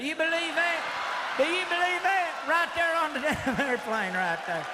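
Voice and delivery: high-pitched comic incredulity; high, hammed-up outraged disbelief; mock disbelief. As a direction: pitch it way up, playing astonished. Feigned disbelief at his punchline.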